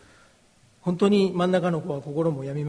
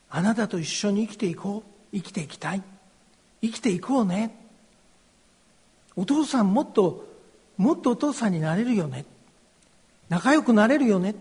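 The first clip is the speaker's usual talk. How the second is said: loving forgiving voice. Retold or imitated. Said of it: "愛と許しに満ちた方の…心に響く声".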